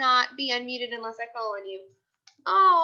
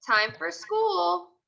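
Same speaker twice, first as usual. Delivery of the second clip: cheery reminder; 2 semitones higher, much slower than usual. Acted. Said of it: "You would say".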